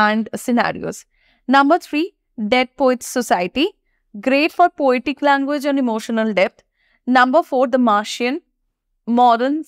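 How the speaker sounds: slow, deliberate list of movie titles; slow list read. Shown as a demonstration. Teacher reads her recommended movie list to students, slow and measured. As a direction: present each title calmly, one by one.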